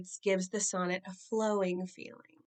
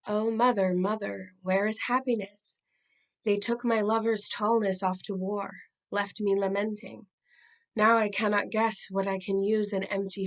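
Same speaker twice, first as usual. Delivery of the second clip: louder, earnest reading of a grieving wife; poem recital; 4 dB louder than usual. Acted. For students, the wife asking her mother where happiness is. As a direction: read it as a woman aching for her lost lover. Reads Brooks's poem, woman's lament.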